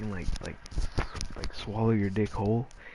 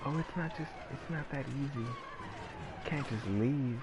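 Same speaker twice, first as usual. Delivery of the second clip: higher, very slow mock whine; mock whiny complainer; 5 semitones higher, 4 dB quieter, slower than usual. Mocking people who say they can't just leave, in a slow mock whine. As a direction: drag it out like a pouty complainer.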